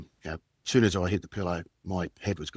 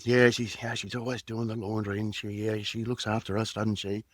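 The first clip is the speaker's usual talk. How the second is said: playful reassurance. Acted. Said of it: "we were just having a bit of a game".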